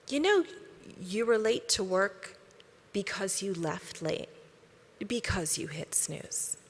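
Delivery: soft, slow and calm; very quiet. Retold or imitated. Soul's voice telling you quietly, slow and soft. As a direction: say it gently, once, fading out. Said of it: "will very quietly one time say".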